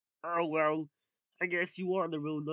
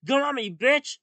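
shouted challenge; 7 semitones higher, 9 dB louder than usual. Acted. Monster challenging the fake.

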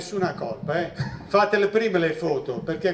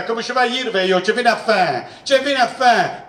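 higher-pitched mock parent in thick southern Italian dialect; 3 semitones higher than usual. Teacher answers a parent at school, southern Italian dialect. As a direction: imitate a brusque southern Italian dialect speaker. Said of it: "Tradotto dal tedesco".

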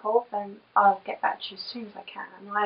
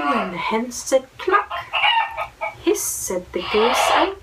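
lively storybook reading, sing-song; reading to children; 2 semitones higher than usual. Acted. Mum reading a picture book aloud to her little boy, lively. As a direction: read it like a bedtime picture book.

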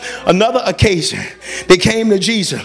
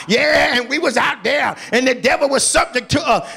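fake healer. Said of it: "these fake healers talking about".

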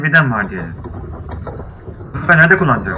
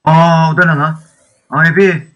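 startled; 3 semitones higher, 6 dB louder, slower than usual. Real, not acted. Sees something shocking in game.

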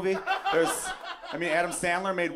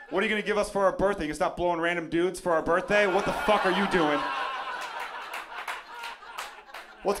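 mock rant. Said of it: "You guys are thinking I'm angry".

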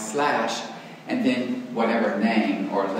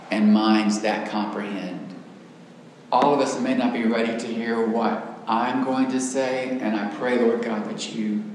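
prayer. Acted. Prays before the class.

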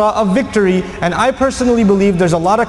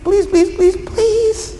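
pleading, rising higher and higher up to the final pleases; begging and pleading; 6 semitones higher than usual. Retold or imitated. Abu Sufyan begging the Prophet to renew the treaty, pleading and climbing. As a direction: beg desperately, voice climbing with each please. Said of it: "He's begging and pleading".

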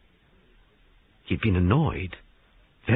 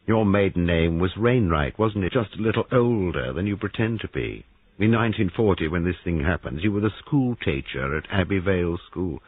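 changed voice. Acted. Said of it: "His voice changed a little".

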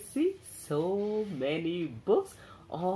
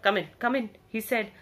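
grudging bear; 3 semitones higher, faster than usual. Acted. Grouchy bear grudgingly invites cub.

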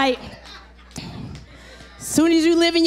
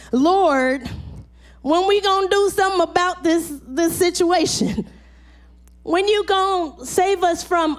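impassioned pleading prayer; preaching lament; 3 semitones higher than usual. Real, not acted. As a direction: cry out to the Lord.

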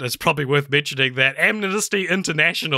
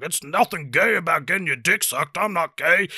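higher, sing-song mock protest; mocking denial; 4 semitones higher than usual. Film character protesting he's not gay, mocking denial. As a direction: mimic a defensive guy insisting.

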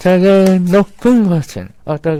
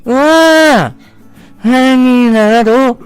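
excited; 5 semitones higher, 4 dB louder than usual. Acted. Dragonfly amazed at the yard.

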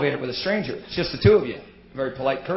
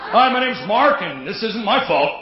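denial speech; 5 semitones higher than usual. Retold or imitated. Denial anonymous member.

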